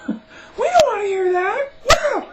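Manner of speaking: high, loud, slow hammed-up yell; sarcastic whooping retort; mock protest shout. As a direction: jeer back like an annoyed crowd. Mocking annoyed bystanders.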